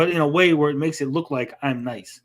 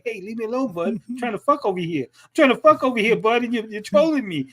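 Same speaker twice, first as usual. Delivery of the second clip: whiny impression; 4 semitones higher than usual. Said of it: "And I was like".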